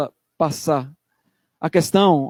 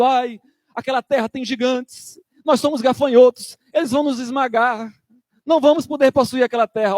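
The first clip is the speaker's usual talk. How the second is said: povo com medo; 4 semitones higher than usual. Retold or imitated. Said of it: "o povo tava com medo".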